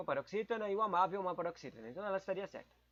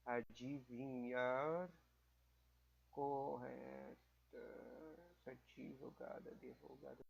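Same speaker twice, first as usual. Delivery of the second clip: slow quiet reading; 5 semitones lower, 11 dB quieter, much slower than usual. Shown as a demonstration. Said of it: "Corretas, adivinhar, errôneas".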